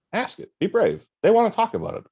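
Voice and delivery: high, coaxing mentor voice; old mentor imitation. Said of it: "giving me the lessons".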